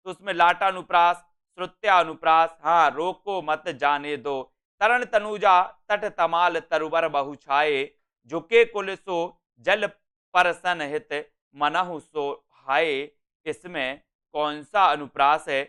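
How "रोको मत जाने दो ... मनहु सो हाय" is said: slow, measured verse reading; verse recitation. Acted. Teacher reading a verse question to students, slow recitation. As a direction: recite it slowly, word group by word group. Reads exam verse aloud.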